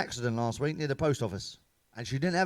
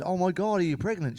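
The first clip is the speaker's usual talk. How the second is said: shocked mum; 4 semitones higher than usual. Retold or imitated. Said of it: "completely shocked".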